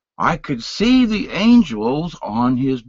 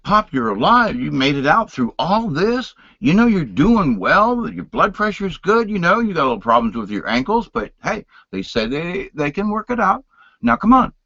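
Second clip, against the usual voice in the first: higher, urgent coaxing; pleading; 6 semitones higher than usual. Retold or imitated. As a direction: talk a sick father out of it. Son pleading with father.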